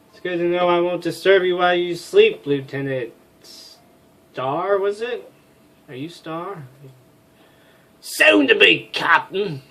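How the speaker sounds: put-on lightly done Australian Cockney accent; chirpy Australian Cockney voice. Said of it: "she's an Australian Cockney".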